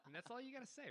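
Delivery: high, laugh breaking into the words; real laughter. Real, not acted. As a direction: chuckle through the punchline. Laughing at own joke.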